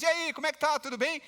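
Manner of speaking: imitating a breezy, high-pitched hello; casual off-pulpit chat. Preacher imitates the pastor greeting people off the pulpit, casual. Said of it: "depois ele sai do púlpito e fala com as pessoas".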